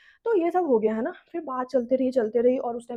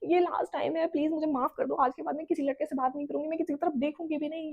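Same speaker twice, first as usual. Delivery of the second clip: begging mum; 3 semitones higher than usual. Retold or imitated. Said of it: "मैं पूरा हाथ जोड़ के".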